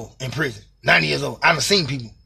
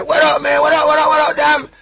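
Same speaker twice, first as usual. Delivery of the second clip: answering call; 10 semitones higher, 6 dB louder than usual. Retold or imitated. Other inmate answers through vent.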